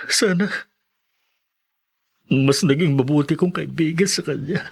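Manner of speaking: hushed, breathy whisper of grief; whispered regret. Acted. Grieving friend whispering his regret to the teacher. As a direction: whisper it as if confessing.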